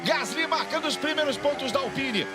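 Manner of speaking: live race play-by-play; motorsport commentator. Acted. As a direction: call the last laps with energy. (narração de corrida ao vivo)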